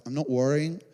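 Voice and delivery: quiet, fading into peace; peaceful surrender. Retold or imitated. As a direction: let each line sink into stillness. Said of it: "I just got to this place of peace".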